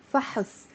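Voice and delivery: soft فحص with a short "uh" after ح; فحص eased with a helper vowel; native added vowel. Shown as a demonstration. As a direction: say فحص softly as fa-hus. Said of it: "native speakers do that too".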